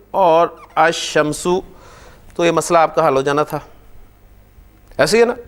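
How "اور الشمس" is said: الشمس slowly as ash-shams; slow model reading. Shown as a demonstration. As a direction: drag out الشمس, lam merged. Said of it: "اس کو ایسے یہاں پر لکھ دیتا".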